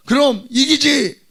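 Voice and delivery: high, loud, drawn-out assurance; hammed-up confident father; acted boasting dad. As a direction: boast slowly at full voice to a child. Father boasting to his son.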